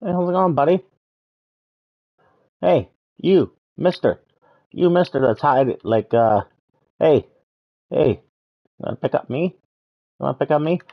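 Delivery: high cheeky creature calling out; high critter voice. Pretend. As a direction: pipe up like a tiny brave critter.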